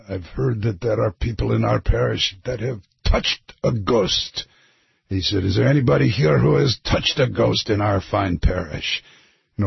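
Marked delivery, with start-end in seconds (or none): 0.1-4.5 put-on preaching priest with a shaky grasp of Irish accent; Irish accent sounding Scottish. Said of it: "your Irish accent is Scottish". 5.4-9.0 put-on preaching priest with a shaky grasp of Irish accent; Irish accent sounding Scottish. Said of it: "your Irish accent is Scottish".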